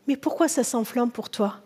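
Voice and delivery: soft, calm asking; quiet, patient enquiry to someone upset; gentle question. Acted. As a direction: ask softly, without any reproach. God gently questions angry Cain.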